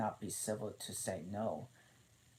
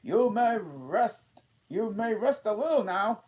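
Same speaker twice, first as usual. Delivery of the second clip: kindly; 14 semitones higher, 11 dB louder than usual. A narrator's reading. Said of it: "said kindly".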